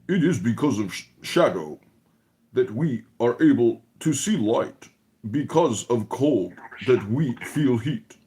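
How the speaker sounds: mock nasal Chicago voice reading from a book; imitating Coptic. Mocking Coptic by reading a mystical book in his voice. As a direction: read the book aloud as Coptic, nasal and droning. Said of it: "imitate Coptic as I read from this book".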